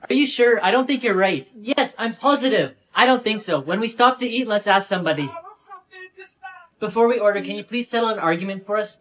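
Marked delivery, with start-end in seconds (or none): none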